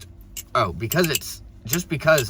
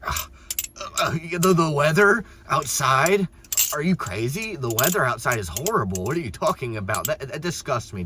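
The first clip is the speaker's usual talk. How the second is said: mock disgusted clerk; 4 semitones higher than usual. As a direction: parody a clerk outraged by a harmless remark. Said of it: "They're gonna be like".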